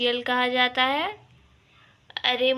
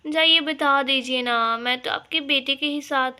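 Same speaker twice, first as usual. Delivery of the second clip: loud cheeky dare; daring her to tell; defiant bahu taunts saas; 4 dB louder than usual. Acted. Bahu defies mother-in-law.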